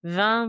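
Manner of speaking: vingt ending in a nasal ng, said like veng; Toulouse accent twenty. Shown as a demonstration. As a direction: let vingt ring with an ng at the end. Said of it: "twenty is bang".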